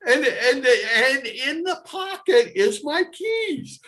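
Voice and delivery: high, rising glee as each item turns up; excited. Retold or imitated. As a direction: gush with growing delight at finding everything. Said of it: "So I am so excited".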